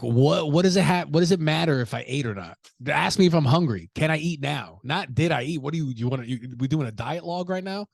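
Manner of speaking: exasperated rant. Retold or imitated. Host ranting at friends who ask if he ate, exasperated. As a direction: fire back like the question is absurd.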